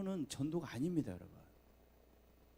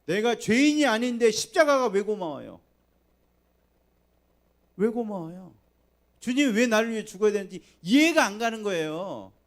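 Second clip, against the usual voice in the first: raised, louder preaching voice; 8 semitones higher, 12 dB louder than usual. Acted. Pastor challenging the congregation, raised preaching. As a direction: press the question on the congregation.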